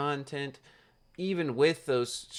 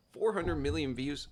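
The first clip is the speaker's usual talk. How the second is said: rising mock disbelief on four; incredulous question; 2 semitones higher than usual. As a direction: ask it like you can't believe the number. Incredulous echo of the figure.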